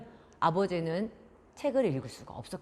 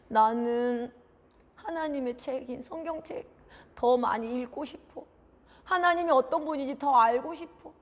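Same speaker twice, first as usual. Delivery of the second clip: put-on higher, plaintive child voice; tearful longing; 5 semitones higher than usual. Child missing the torn Bible at night, tearful. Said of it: "눈물을 흘리면서".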